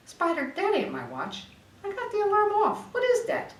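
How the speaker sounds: baffled thug rising in pitch; puzzled Tony. Acted. Tony confused by beeping.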